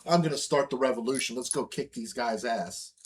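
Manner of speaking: a lightly hammed-up rebel rallying the bar; rousing rebel. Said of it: "a guy walking into a bar going".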